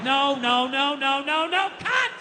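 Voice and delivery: rapid nos climbing in pitch to a yelled stop; rising, frantic refusal; mounting exasperation. Acted. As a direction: build to a frustrated outburst. Acts out mounting frustrated refusal.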